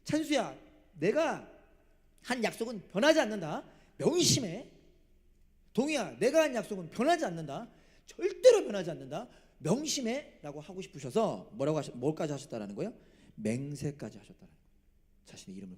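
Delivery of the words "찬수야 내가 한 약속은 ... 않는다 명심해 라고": high, loud voicing of God's vow; emphatic solemn assurance. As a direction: impress an unbreakable promise on each named listener. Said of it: "확실하게 알려주려고".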